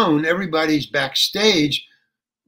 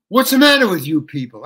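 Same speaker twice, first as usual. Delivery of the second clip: retold angry yell; 2 semitones higher, 7 dB louder than usual. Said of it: "And I start yelling at them".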